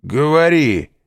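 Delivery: high, loud tipsy prompt; drunken urging. A narrator's reading. Caderousse urges Danglars on, tipsy and loud. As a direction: push him to go on, slurring cheerfully. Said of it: "подхватил Кадрус".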